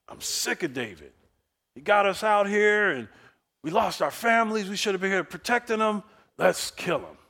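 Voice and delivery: angry soldiers who lost their families, ready to stone David; angry mob. Acted. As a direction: voice the furious men turning on David. Angry people talking about stoning David.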